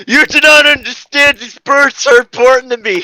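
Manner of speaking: put-on high, loud insistent girl voice; shouting girl. Girl defending her birds against Snart, high and loud. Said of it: "Hyeoka shouted".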